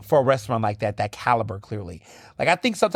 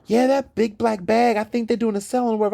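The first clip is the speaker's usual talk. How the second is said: hinting partner quoted; 10 semitones higher than usual. Retold or imitated. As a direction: nudge the hint casually. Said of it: "And it's like".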